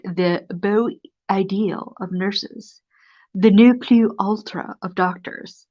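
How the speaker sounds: put-on lively read-aloud of an old humorous essay. Reading a funny old book to viewers, lively.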